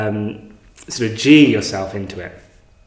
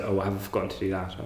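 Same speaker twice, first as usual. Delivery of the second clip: quick mind chatter; 9 dB quieter, much faster than usual. Retold or imitated. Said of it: "your mind just keeps sort of cycling".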